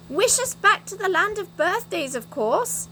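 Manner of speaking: a group's excited shout; excited yell. Acted. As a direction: cheer the answer out together. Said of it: "yelled everyone in excitement".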